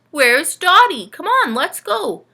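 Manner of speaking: loud, slow hearty call. Acted. Uncle Benny calling for Dotty, loud. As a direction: call through the house.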